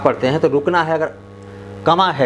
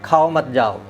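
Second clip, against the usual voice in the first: "खाओ मत जाओ" in one unbroken run; read without pause; slower than usual. Shown as a demonstration. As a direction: link all words of "खाओ मत जाओ". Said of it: "लगातार पढ़ेंगे".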